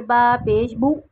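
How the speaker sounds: बू cut off with a sudden jerk, the wrong way; jerked vowel. Shown as a demonstration. Teacher showing the wrong, jerky बू to students. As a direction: jolt बू out abruptly as a mistake. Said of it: "झटका दे के नहीं पढ़ते, जैसे".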